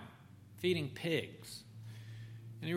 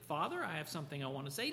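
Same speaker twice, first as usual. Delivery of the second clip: polite; 3 semitones lower, 9 dB quieter, much faster than usual. A narrator's reading. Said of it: "Doesn't address him politely".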